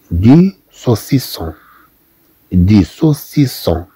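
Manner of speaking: دي سوسيسون said slowly with a clear s; slow French demo. Shown as a demonstration. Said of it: "ثم عندنا". (نطق دي سوسيسون ببطء)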